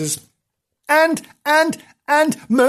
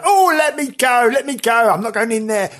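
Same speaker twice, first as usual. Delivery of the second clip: high, pleading squeal of a dragged man; pleading prisoner; 9 semitones higher, 4 dB louder than usual. Pretend. Prisoner dragged to the gallows begging, high frantic plea. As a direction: beg to be let go like a terrified prisoner. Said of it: "'cause I would kick and scream".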